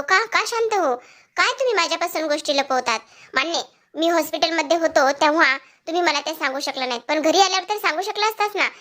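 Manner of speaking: a touch of indignant anger, pitch lifted; imitating a hurt husband, mild mock anger; retold angry retort. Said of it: "रागातच तिथून तडकाफडकी असं बोलून".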